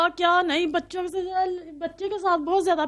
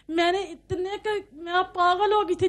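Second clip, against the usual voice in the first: crying; 3 semitones higher than usual. Real, not acted. Recounting the divorce, weeping.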